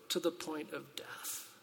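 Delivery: slow grave hush; hushed, slow emphasis. Acted. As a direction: let it sink, soft and slow. Dwells on Jesus' sorrow.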